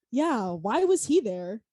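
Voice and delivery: slow, dopey wondering; clueless question. Retold or imitated. Quoting her own dumb question to mom, slow and dopey. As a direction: sound completely oblivious. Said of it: "and I quote".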